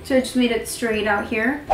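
flat monotone, lips barely moving; talking through glitter-stuck lips. Real, not acted. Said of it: "I'm sorry if I sound so mon-, monotone".

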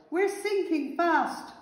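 high, drawn-out wail of alarm; panicked yell. A narrator's reading. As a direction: call out desperately as you sink. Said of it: "they yelled".

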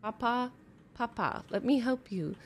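put-on high pleading kid voice; whiny begging. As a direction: beg Papa like a hungry child. Kid begging dad for chips.

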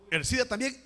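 emphatic preacher's call. Real, not acted. Each illness called, then repeated slowly.

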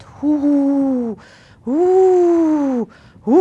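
long, high, loud hoots; drawn-out hollow "hoo"; owl hooting. A narrator's reading. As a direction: hoot like a storm wind. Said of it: "és közben huhogott".

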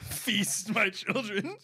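slow sinister villain, drawn out. Acted. Friend plays a dark lord feeding souls, slow and sinister. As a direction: hiss it slowly like a dark lord.

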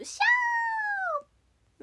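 high drawn-out shouted hiss; cat hiss. Pretend. Hisses after thanking gifter.

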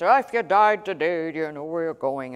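lightly mocked evangelist, loud opening that falls away; a hint of altar-call preacher, punched at the start; caricature evangelist. Preacher parodying the evangelist's deathbed question, light caricature. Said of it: "the caricature of the evangelist".

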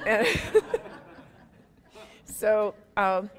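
real laughter trailing off; laughing. Real, not acted. The speaker laughing at her own story, amused. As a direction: laugh it off into a breathy chuckle.

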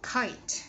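KITE with the final T released, silent E; careful model of "Kite" ending on a crisp T; ending sound. Shown as a demonstration. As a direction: pop the T at the end of "Kite". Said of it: "but ending sound".

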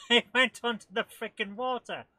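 loud, high, laughing amazement; delighted laughing. Real, not acted. Player whose speedboat reached the water, laughing delight. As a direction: laugh it out in disbelief. Boat glitches onto the water.

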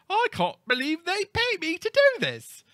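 high, loud, hammed-up elation; acted gushing delight. People who love their careers, hammed-up delight. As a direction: exclaim like a worker overjoyed with the job. Acted quote of happy workers.

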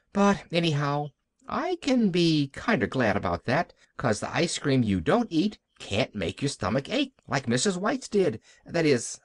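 lightly voiced little girl, sorry then hopeful; Pollyanna. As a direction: ramble from mild letdown into consolation. Child Pollyanna finds reason for gladness.

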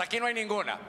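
a firmer call for the crowd to repeat. Shown as a demonstration. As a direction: push it out, stronger, leading the congregation. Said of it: "No, con más fuerza".

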